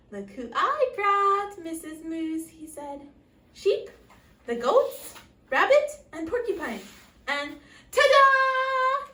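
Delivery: high, loud showman's announcement; a moose unveiling the turkey to his wife; grand presentation. Acted. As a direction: present the guests with a flourish, slow ta-da.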